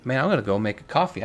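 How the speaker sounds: sleepy yawn while talking; words stretched by a yawn. Real, not acted. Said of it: "I just yawned".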